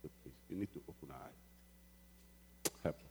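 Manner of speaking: soft, breathless pleading prayer, slow; hushed prayer. Retold or imitated. Preacher retelling his night prayer, soft and pleading. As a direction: beg God in a near whisper. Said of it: "I said".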